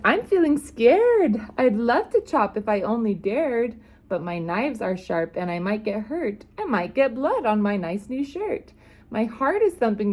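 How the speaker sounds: high, fretful cook voice; scared cook. Acted.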